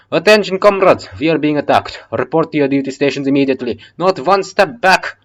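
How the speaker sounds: loud, bad Russian accent barking orders; shit Russian accent. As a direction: shout the alarm in a clumsy Russian accent. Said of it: "that was a shit Russian accent".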